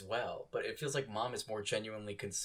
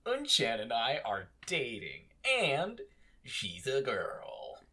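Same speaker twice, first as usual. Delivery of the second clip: cutesy; slower than usual. Retold or imitated. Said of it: "starts trying to cute his way out".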